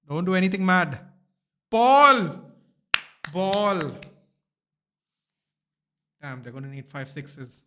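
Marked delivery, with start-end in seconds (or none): 0.1-1.0 louder plea. Real, not acted. Fan urging the bowler on, louder plea. 1.7-3.9 loud, high shout at the screen. Real, not acted. Fan yells at the bowling on screen, real loud shout.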